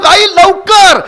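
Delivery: high, loud impatient yell for mother; child's shout. A narrator's reading. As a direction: shout it like a boy hurrying his mother. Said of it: "पोराची पुन्हा आरोळी".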